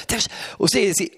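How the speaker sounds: ordinary talk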